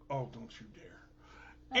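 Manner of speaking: low, slow, softened threat; playful low-voiced menace; mock warning. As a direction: warn them off under your voice, drawn out. Mock warning to the other person.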